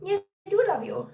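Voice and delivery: high, squealing cute aggression; overwhelmed by cuteness. Real, not acted. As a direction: gush over the dog, high and strained. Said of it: "cute aggression".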